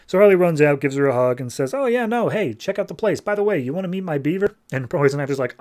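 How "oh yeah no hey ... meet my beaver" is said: high, quick, eager chatter; excited greeting. Retold or imitated. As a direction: greet a friend in an excited, higher voice. Harley greeting her visitor with a hug.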